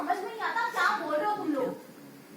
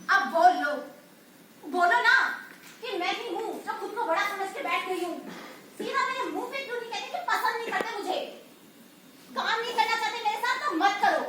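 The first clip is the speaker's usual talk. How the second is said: angry outburst. Acted. Offended troupe woman scolding colleagues, hurt and angry. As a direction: lash out at the ones who doubt you.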